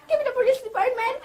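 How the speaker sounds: fast, frantic request; panicking woman demanding the police; desperate urgent demand. Acted. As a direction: rush it out in a desperate call for help.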